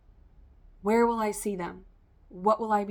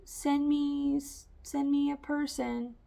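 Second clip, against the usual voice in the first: higher, pleading voice asking the universe; lightly voiced plea for a partner; pleading request; 8 semitones higher, slower than usual. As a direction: beg a little, pitched up.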